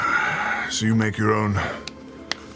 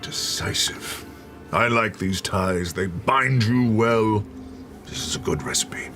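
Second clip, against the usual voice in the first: sly approval. Acted.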